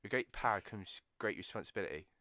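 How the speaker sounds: lightly attempted Norfolk accent. Trying a film quote for the guesser, Norfolk accent. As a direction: have a shaky go at Norfolk. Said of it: "Oh, it's an accent then".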